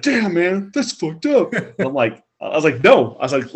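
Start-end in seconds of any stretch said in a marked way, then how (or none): 0.0-1.5 raised, higher pitched buddy voice; lightly voiced shocked friend; mock roommate voice. Roommate voiced in retold story. 2.8-3.1 a loud flat refusal; firm loud no. Retold or imitated. Refusing friend, retold.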